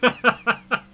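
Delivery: sudden high, loud yelp; imitating a shocked yell; startled shout. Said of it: "Kayla just woke up, like, what the".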